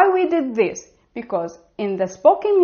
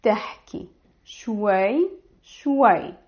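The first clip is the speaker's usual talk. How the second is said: slow model. Shown as a demonstration. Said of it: "you will say".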